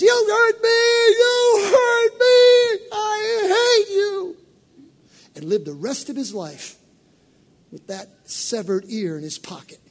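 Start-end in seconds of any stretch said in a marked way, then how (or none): 0.0-4.4 high, much louder crying shout, slowed way down; wounded rage. Retold or imitated. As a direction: scream it through tears like a betrayed man. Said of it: "Malchus goes".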